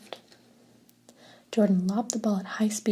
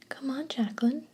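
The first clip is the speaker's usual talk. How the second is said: higher, whiny mocking sister imitation; mock her in a whiny little voice; lightly whined mimicry of the little sister; whiny mockery; 5 semitones higher than usual. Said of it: "mocked in a whiny voice".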